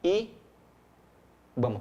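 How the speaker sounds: ibama drawn out very slowly as i-ba-ma; spelled out by syllables. Shown as a demonstration. Teacher shows students that ibama forms syllables, drawn out slowly. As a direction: stretch ibama so each syllable stands apart. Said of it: "sílabas aqui".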